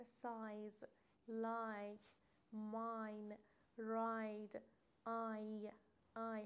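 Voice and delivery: سایز، لایک، ماین، راید with a full "ai" glide, word by word; long "ai" vowel. Shown as a demonstration. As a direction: model آی as "eye", each word set apart.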